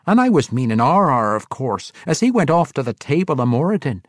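a dwarf priest recounting, loud and high. Acted. Parson Glaive reminding Bruner, dwarf voice. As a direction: tell the memory in a rough brogue.

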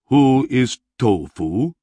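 a big barbarian asking slowly; barbarian puzzled. A narrator's reading. Barbarian hero voiced by narrator.

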